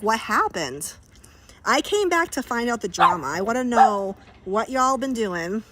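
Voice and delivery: loud, delighted call-out to a returning viewer; excited greeting. Real, not acted. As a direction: hail a friend you've missed.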